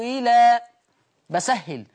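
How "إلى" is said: إلى with its hamza softened between hamza and ya; eased hamza. Shown as a demonstration. Teacher demonstrating the eased hamza in إلى. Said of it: "هكذا".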